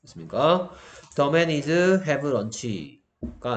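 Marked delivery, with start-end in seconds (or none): 1.2-3.5 extremely slow reading of the wrong sentence; very slow wrong example. Shown as a demonstration. Teacher reading the wrong example to the class, very slow. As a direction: drag out the wrong version. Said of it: "아니고".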